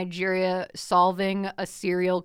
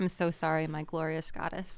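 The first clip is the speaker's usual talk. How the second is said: reverent; 4 semitones lower, 9 dB quieter than usual. Pretend. Mock worship of author.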